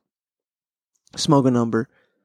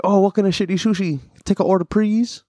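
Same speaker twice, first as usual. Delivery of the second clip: put-on raised-pitch caricature Asian accent; mock Asian accent; 6 semitones higher than usual. South Park joke about taking orders, mock Asian accent. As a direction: quote the cartoon in an exaggerated Asian accent. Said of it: "that's from South Park".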